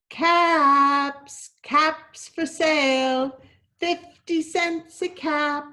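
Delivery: slow loud street-seller cry; peddler's call. Acted. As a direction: call out the wares.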